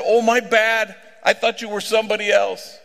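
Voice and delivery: high and loud, breezy apology; booming apology to a stranger. Retold or imitated. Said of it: "loud-ass voice".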